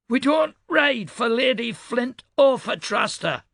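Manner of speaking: put-on old woman's northern Fatrastan twang, pitched high; northern Fatrastan accent, high and weathered. A narrator's reading. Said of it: "she said with her northern Fatrastan twang".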